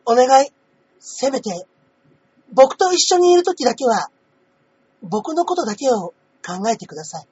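pleading younger brother voice; younger brother character. Acted. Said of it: "このお兄様っていうことは弟キャラですもんね".

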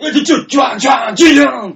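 high, loud mock squeals; hammed-up arousal. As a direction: play a listener melting, wildly overdone. Acts aroused listener hearing comeback.

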